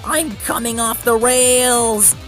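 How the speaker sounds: loud, high, drawn-out wail; panicked shout. A narrator's reading. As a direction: scream out as you derail. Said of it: "shouted James".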